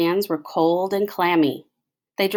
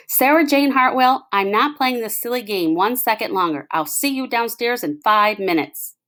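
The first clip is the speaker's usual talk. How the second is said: a hint of a stern father, louder on the name; lightly firm, full name called out; 5 semitones higher, 3 dB louder than usual. Father ending the game, mildly stern.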